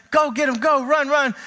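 lightly acted excited rooting; cheering at the screen. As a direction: egg the hero on. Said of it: "And he's like".

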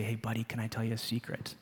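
hushed and soft, leaning in close; retold hushed secret to his son; quiet secret voice. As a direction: tell him a little secret. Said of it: "I whisper very quietly".

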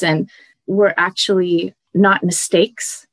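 moved, near tears. Real, not acted. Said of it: "once you stop crying".

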